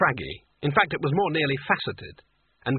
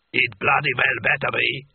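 angry giant; 4 dB louder than usual. A narrator's reading.

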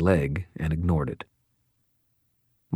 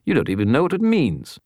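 much higher retorting spirit; grumpy skull voice; 8 semitones higher than usual. A narrator's reading. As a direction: scoff like a sulky skull.

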